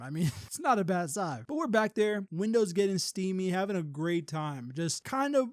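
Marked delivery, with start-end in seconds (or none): 0.0-1.4 repeats it with a real laugh breaking in. Real, not acted. Owning up to listeners about the car, laughing. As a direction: chuckle through the admission.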